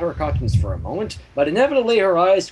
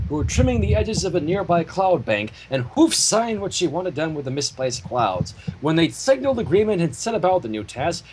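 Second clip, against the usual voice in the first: steady storybook reading; story narration; 2 semitones higher than usual. A narrator's reading. Reader narrating the fanfic to his co-hosts in storybook style. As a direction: read the fanfic aloud with flow.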